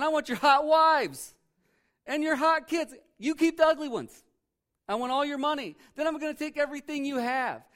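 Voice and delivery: loud, high, greedy boasting king; arrogant king. Retold or imitated. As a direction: bellow it like a greedy tyrant showing off. Voicing the arrogant king's demands.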